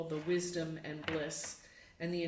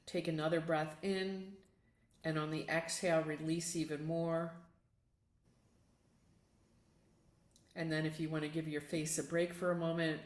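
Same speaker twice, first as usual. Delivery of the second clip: gentle yoga nidra guidance with long pauses; guided meditation. Acted. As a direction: guide them unhurriedly through a relaxing self-massage, pausing between steps.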